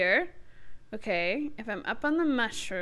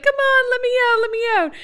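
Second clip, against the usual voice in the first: higher, louder retold plea; urgent pleading; 10 semitones higher, 4 dB louder, faster than usual. Player retells being stuck in bed, urgent pleading. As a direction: re-enact begging to be let out. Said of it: "literally smashing all of the buttons".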